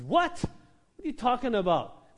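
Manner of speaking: sharp high "What?" then slow outraged question; indignant disbelief. Acted. Brothers scoffing at Joseph's dream, indignant disbelief. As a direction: scoff at a ridiculous claim.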